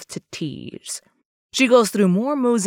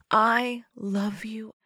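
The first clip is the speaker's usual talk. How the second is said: slow, soft declaration of love; loving; 3 semitones higher, 6 dB quieter, slower than usual. Acted. Parting lover saying it one last time, slow and loving. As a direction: draw it out tenderly and softly. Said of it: "mad loving words".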